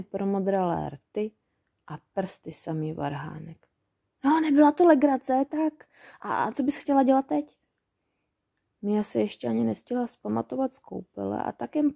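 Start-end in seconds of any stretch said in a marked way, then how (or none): 4.2-7.6 goblin chirp. A narrator's reading. Goblins cheerful after icy swim.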